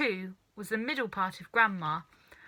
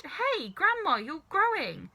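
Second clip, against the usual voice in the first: high, loud startled calling; boy shouting as grandma grows; alarmed shout; 6 semitones higher, 4 dB louder than usual. A narrator's reading. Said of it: "George gave a jump and shouted".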